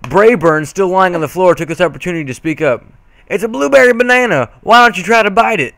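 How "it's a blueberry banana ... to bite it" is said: teasing cousin. A narrator's reading. Cousin teasing granny in story.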